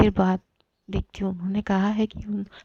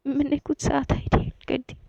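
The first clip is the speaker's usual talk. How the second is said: higher, halting confession through tears; a girl admitting she snapped at someone in anger, tearful; 4 semitones higher than usual. Acted. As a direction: stammer it out, choking on regret. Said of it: "चीख के रोने लगती है".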